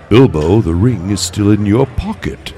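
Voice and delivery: lightly voiced old wizard; a hint of a wizard's measured reminder; Gandalf. Wizard questioning Bilbo about the ring, lightly acted. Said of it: "When Gandalf was talking to Bilbo".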